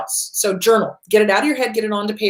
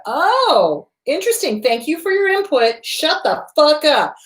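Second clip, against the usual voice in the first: mock polite then blunt, pitched up; sweetly sarcastic brush-off to the inner voice; fake-polite brush-off, higher; sarcastic dismissal; 5 semitones higher than usual. Shown as a demonstration. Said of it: "So anytime you hear shoulda".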